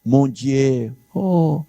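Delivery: playful mock French exclamation; mock French cry. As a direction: fake French groan of pain. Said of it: "Ninguém vai falar em francês".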